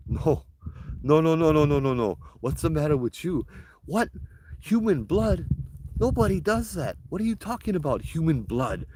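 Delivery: high-pitched, incredulous refusal; shocked protest. Retold or imitated. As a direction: protest in disbelief, pitch shooting up. Retold horrified refusal to the spirit.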